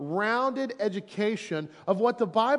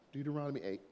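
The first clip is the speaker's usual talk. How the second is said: winded and softer; out of breath; 5 semitones lower, 12 dB quieter, much faster than usual. Real, not acted. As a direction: say it short of breath, faded. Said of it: "Let me catch my breath".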